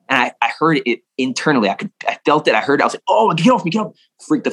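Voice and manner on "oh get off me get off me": retold panicked get off me; high, urgent push-away plea; reliving the panic of the crack; panicked yell. Panicked after spine cracked.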